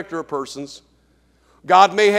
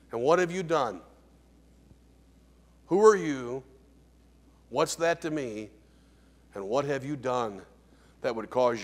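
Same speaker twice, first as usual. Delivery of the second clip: hushed repetition; 8 semitones lower, 11 dB quieter than usual. Shown as a demonstration. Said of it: "Here, very quickly".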